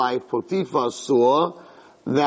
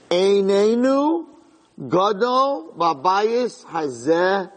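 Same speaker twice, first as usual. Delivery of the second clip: boastful recital; 6 semitones higher, much slower than usual. Retold or imitated. Yosef's boast quoted in Hebrew.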